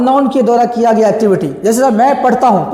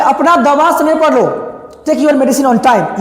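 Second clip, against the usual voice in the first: slow advice; much slower than usual. Shown as a demonstration. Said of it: "एडवाइस हो जाएगा".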